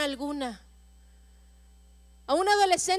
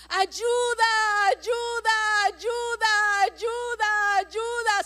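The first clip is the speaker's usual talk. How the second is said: higher, shouted repeated plea; crying out; 3 semitones higher, much slower than usual. Acted. Preacher acting the boy clamoring to God, shouted. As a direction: keep calling out desperately. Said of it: "empieza a clamar".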